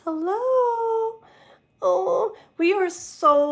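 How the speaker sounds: high, delighted hello; light up to greet them; excited greeting. Real, not acted. Tarot reader greeting a live viewer, high and delighted.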